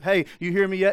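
acted call to someone not listening. God calling to distracted listener.

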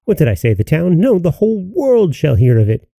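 rising, triumphant boast; boastful joy. Acted. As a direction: crow it to the world.

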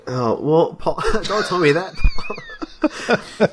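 laughing protest, high and squeaky. Real, not acted. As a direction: pitch jumps up through a laugh. Pleading through laughter.

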